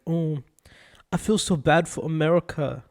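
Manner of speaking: mild attempt at a Canadian accent; lightly mock a sympathetic Canadian, missing the accent; Canadian impression. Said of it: "when Canadians say it, they're like".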